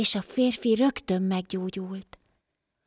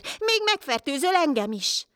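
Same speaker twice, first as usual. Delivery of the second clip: angry shout; 7 semitones higher than usual. A narrator's reading. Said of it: "kiáltott rá az ember".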